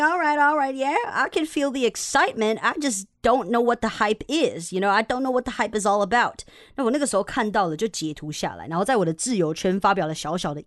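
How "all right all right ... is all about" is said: mock-unimpressed reaction. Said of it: "I'm like".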